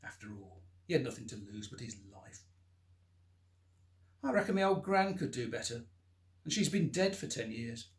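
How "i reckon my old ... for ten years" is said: much higher, louder jeer; a beaten man mocking his attacker; loud mocking taunt. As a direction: jeer at him through the pain. Taunting attacker after punch.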